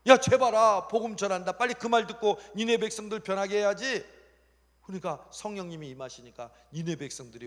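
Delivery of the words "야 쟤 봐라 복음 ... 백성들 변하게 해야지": loud, raised, eager exclamation; acted thrilled urging; excited God. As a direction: cheer him on urgently. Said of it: "하나님이 그러는 거야".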